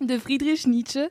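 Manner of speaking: emphatic. Real, not acted. Laughing emphatic retry.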